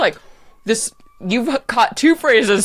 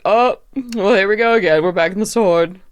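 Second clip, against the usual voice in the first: depressive drag queen. Acted. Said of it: "depressive drag queen voice".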